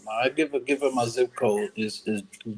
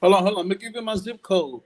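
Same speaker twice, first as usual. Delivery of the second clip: raised, pushy call to hold on; loud interruption; 7 semitones higher, 3 dB louder than usual. Real, not acted. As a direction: cut in loudly to grab the floor. Joker interrupts the roast loudly.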